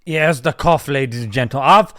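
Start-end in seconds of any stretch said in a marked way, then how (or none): 1.7-1.9 slow, loud mock whine of the excuse-maker; louder, slower parody of his self-pity; mocking imitation. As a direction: ham up his list of injuries, dragging it out. Mocking the guy's injury list.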